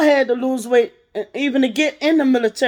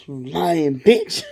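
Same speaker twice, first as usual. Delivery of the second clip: slow contempt; 6 semitones lower, much slower than usual. Real, not acted. Calling out the ex.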